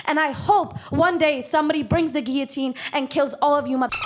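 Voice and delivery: wild unhinged ranting. Real, not acted. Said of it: "the quintessential unhinged activist".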